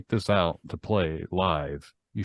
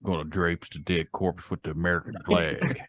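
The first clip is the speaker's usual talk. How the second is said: put-on Southern accent. Good ol' boy draping the American flag, Southern accent. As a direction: lay on a put-on Southern twang. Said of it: "we need a southern accent".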